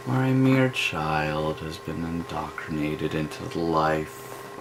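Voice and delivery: mock sorrow over the poor child; mock mournful. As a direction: lament it like a sad documentary. Mournful narration of sad case.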